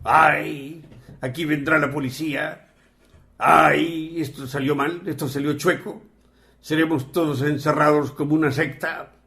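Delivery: mock worried lament; mildly hammed-up wail on each "ay"; mimicked fretting. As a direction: echo someone's anxious thoughts back to them. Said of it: "¿Sabes qué pensabas tú?".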